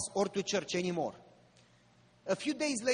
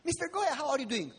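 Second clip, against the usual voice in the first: first possessed voice; 6 semitones higher, faster than usual. Retold or imitated. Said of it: "One voice".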